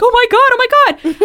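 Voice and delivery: very high, loud panicked imitation; mock horror. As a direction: replay her own horrified reaction. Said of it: "it was terrifying".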